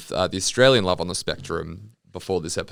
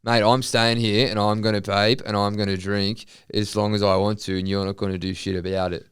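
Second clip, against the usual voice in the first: put-on drunk patron. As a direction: dig in like a drunk refusing to leave. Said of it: "drunk patron".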